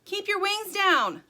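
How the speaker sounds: high, loud, drawn-out order; slow shout to carry over wind; yelling over storm. A narrator's reading. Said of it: "Sugar yelled over the storm".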